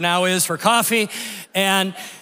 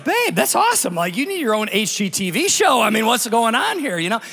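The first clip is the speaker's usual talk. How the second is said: excited praise. Retold or imitated. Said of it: "literally, I was like".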